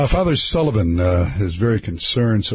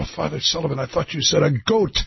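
higher parishioner voice, would-be Irish; Irish accent sounding Scottish; 5 semitones higher, faster than usual. Acted. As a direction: plead innocence in a Scottish-tinged Irish accent. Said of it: "your Irish accent is Scottish".

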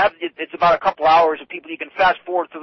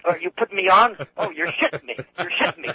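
disbelieving New England local; New England accent. Retold or imitated. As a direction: skeptical Maine voice. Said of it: "It'd be something like".

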